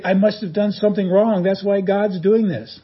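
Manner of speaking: anxious worrying. Retold or imitated. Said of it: "They say".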